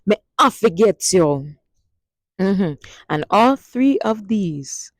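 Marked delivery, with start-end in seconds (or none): 0.1-1.6 Patois "Me I forget you" with stress on "I"; Jamaican Patois. Shown as a demonstration. Teacher demonstrating the bonus line for all the lovers. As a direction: say it with a lover's promise. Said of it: "If a Jamaican tells you this".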